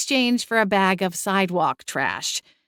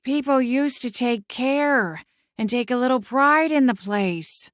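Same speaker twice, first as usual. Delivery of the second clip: put-on higher, animated older relative; town-proud aunt; 5 semitones higher than usual. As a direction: pitch it up like a fussing aunt. Voices a story figure.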